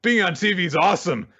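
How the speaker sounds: high thrilled cheer; excited Denji. Retold or imitated. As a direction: gush like a star-struck kid. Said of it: "Denji's like".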